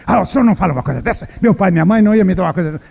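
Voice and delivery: fast, protesting lady's voice; indignant lady. Acted. Lady refusing the warning, fast indignant protest. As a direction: rush out a disbelieving denial.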